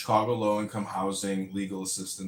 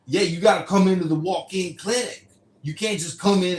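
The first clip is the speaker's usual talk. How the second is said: high, loud put-on receptionist voice; mock receptionist; 8 semitones higher, 8 dB louder than usual. Hospital receptionist refusing the caller, high and loud. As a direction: bark the rule like a fed-up clerk.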